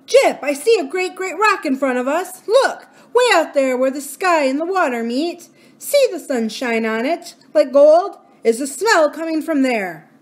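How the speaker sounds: put-on high, loud eager child's call; boy spotting the rock, excited. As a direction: call out to Jip, thrilled at the sight. Boy calls out excitedly to dog.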